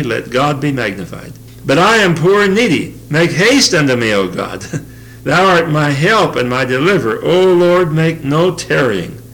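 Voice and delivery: measured, emphatic psalm reading with stressed phrase openings; scripture reading. Acted. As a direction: read the psalm out to the congregation. Reads the psalm aloud.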